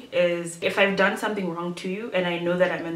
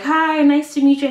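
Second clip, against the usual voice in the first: high bright greeting; 8 semitones higher, 7 dB louder than usual. Retold or imitated. Greeting a guy she forgot.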